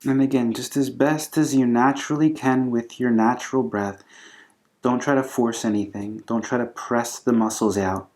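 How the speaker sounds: calm, unhurried yoga instruction with long pauses; guided breathing meditation. Acted. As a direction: gently guide them through the breath, leaving space between phrases.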